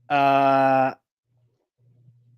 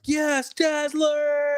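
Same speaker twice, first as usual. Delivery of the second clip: mock cheer; 11 semitones higher, much slower than usual. Voicing Glob cheering Dazzler.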